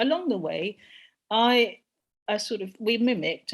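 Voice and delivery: ordinary talk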